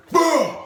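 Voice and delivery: sudden "bah" of effort; high-pitched action sound effect; high exclaimed throw noise. Retold or imitated. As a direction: imitate a forceful heave. Imitating throwing man off.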